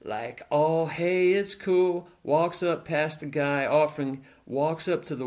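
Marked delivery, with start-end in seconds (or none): 0.5-2.1 breezy, offhand reassurance; lightly voiced easy calm, nothing to worry about; all casual. Henry strolling up to the kids, all casual. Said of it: "all casual".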